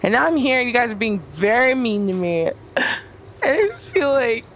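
talking with a numb tongue; words thick from a numb tongue. Acted. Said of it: "my tongue is numb".

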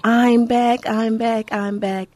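excited repetition that settles down; joyful, fading. Real, not acted. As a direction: savor being back, calming each time. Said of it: "Do you hear the smile in my voice".

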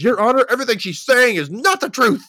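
high, loud whiny protest with a laugh; mocking Nick. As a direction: play him as a desperate idiot, laughing. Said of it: "jumps up and says".

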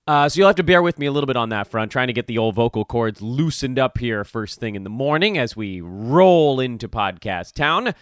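slightly hoarse, worn-out voice; rough voice from yelling. Real, not acted. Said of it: "I've lost my voice a little bit".

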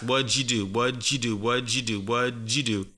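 "What'd you do" repeated in an even run as "wudju do"; repetition drill. Shown as a demonstration. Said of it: "say it five times fast".

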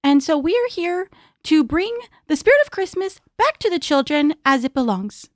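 holiday voice. Acted. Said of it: "I love your holiday voice".

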